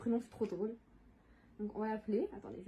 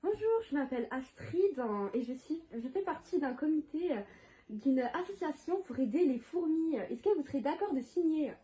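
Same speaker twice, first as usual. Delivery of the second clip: weird prank voice; 3 semitones higher than usual. Pretend. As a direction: fake charity caller, lightly disguised. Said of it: "Je vais prendre une voix bizarre un peu".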